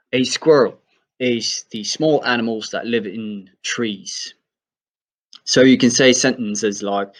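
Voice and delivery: sentences in a light British accent. Shown as a demonstration. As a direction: keep the British squirrel through the examples. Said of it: "go for a more U K kind of accent".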